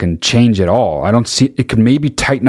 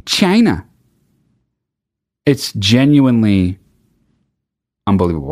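Trump impression. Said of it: "the way Trump says China".

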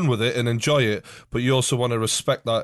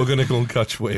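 surfer dude voice. Retold or imitated. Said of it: "Was that a safe impression?".

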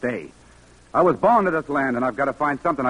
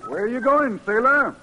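raised, genial call to a passing sailor; friendly older driver; 11 semitones higher than usual. Acted. Kindly driver calls out to young sailor, friendly raised voice. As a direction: hail him cheerfully from the car.

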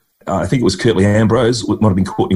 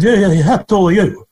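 put-on old cricketer's voice; 11 semitones higher than usual. Retold chat with old bowler.

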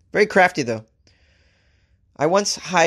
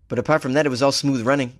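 badly faked New Zealand accent; awful New Zealand accent; faster than usual. Host quoting the fired man, botched New Zealand accent. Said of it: "awful accent".

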